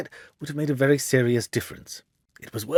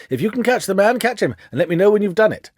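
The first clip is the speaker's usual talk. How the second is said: higher and louder, irritated; indignant; 9 semitones higher, 6 dB louder than usual. Acted. Windibank brushing off Holmes as he makes to leave, indignant. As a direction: snap it out as you grab your hat. Visitor angrily rising to leave.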